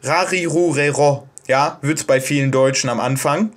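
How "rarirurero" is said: "Rarirurero" with a flapped R between D and L; "Rarirurero" with a quick tongue flap; Japanese R row. Shown as a demonstration. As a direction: tap the tongue briefly on the palate for each R in "Rarirurero". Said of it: "ist die Rarirurero-Reihe".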